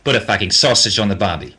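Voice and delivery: lightly played-up Australian accent; Aussie accent on request. Shown as a demonstration. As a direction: say it like an Aussie at the barbie. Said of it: "hear the Aussie accent say sausage".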